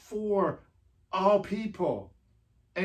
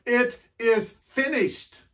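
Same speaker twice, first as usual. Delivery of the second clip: slow, proclaimed victory cry, a bit louder and higher; shout of victory; 4 semitones higher, 4 dB louder than usual. Retold or imitated. Preacher voicing Jesus's victory shout for the congregation, slowed and raised. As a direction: sound out each word like a triumphant call. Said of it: "Jesus' shout of victory".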